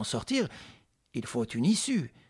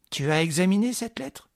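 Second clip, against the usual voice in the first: shaking with anger; 6 semitones higher, 4 dB louder than usual. Acted. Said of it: "s'efforçait de contenir sa colère".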